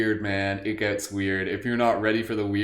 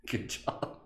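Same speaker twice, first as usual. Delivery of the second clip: whispered praise; 10 dB quieter than usual. Real, not acted. Silent laugh practice.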